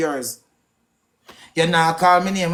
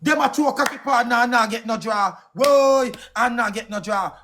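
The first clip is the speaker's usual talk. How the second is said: repeating her words in a raised, mocking shout; retold yell; 3 semitones higher than usual. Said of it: "I say".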